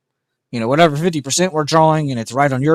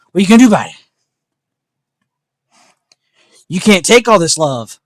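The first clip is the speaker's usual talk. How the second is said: high, loud teasing dog talk; 6 semitones higher, 10 dB louder, faster than usual. Real, not acted. Owner teasing the dog, high loud baby talk. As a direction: tease the dog with love.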